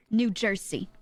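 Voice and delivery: "New Jersey." with the S sound in place of the Z; "New Jersey." said "New Jer-see"; Jersey local way. Shown as a demonstration. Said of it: "the Z's sound like S's".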